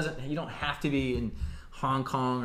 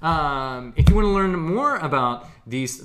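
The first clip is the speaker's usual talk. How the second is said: upbeat sales pitch read; infomercial voice; 4 semitones higher, 5 dB louder than usual. Acted. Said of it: "now I sound like an infomercial".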